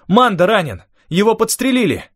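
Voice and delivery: high-pitched alarmed exclamation; urgent cry. A narrator's reading. Telling Rafael a friend has been shot, urgent cry. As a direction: cry out the bad news urgently.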